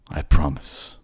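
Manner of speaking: firm promise. Acted. Lover repeats his vow aloud, firm and loud. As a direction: declare it out loud now. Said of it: "I'm coming to get you, my love".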